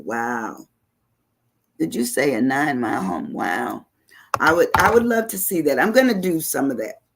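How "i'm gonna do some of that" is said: higher, eager vow; eager promise, pitched up; excited. Real, not acted. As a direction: say it like you can't wait. Excited about seeing Nine Mile.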